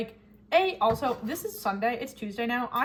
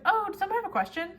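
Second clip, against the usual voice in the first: teacher; 10 semitones higher, 3 dB louder, faster than usual. Retold or imitated. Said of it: "my teacher's like".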